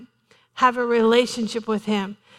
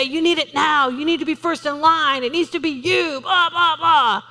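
pushy higher voice of the enemy; tempter's voice; 4 semitones higher than usual. Retold or imitated. Preacher voicing the enemy's demands, mock pushy. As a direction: whine it like a greedy tempter. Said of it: "He's gonna say".

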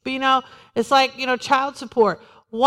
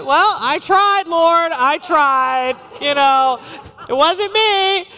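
higher, louder, slow mock plea of a shirker; mock excuse to God; 4 semitones higher, 4 dB louder, much slower than usual. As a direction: ham up a lame excuse to the Lord, drawn out. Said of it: "some people are like".

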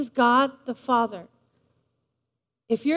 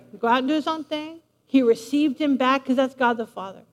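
normal talking voice

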